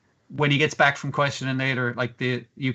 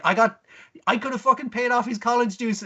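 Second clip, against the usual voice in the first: much higher indignant whine; squeaky complaint from the goddess; lightly voiced spoiled goddess; mock indignant goddess; 8 semitones higher than usual. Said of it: "It's like".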